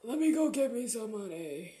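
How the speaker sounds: sighing, weary "Let me go get me some money"; after a sigh. Retold or imitated. Worker sighing before heading to work, weary. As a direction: exhale then say it tiredly. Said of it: "Take a big ass sigh and be like".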